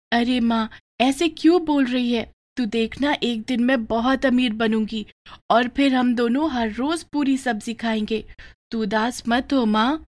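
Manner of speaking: put-on a young girl soothing her crying mother; little daughter consoling.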